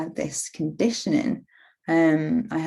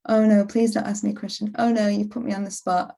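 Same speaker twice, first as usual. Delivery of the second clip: mock panicky plea; 4 semitones higher, faster than usual. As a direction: blurt it out in a rush. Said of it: "inner voice in the meeting".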